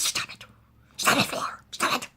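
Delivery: loud, urgent stop it; yelling stop it over and over; shouted plea. Retold or imitated. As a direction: cry out for it to end, loudly. She begs him to stop.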